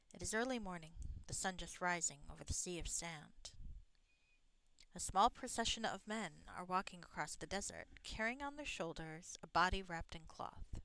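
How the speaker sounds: measured read-aloud game narration; story narration. A narrator's reading. Player reading the game's desert scene aloud, story narration. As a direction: narrate the scene evenly, phrase by phrase.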